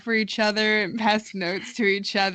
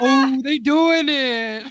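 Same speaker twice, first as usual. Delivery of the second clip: drawn-out, slow and louder; slow amused tease; 4 semitones higher, 7 dB louder, much slower than usual. Real, not acted. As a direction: stretch it slowly, teasing. Joking about the commercial.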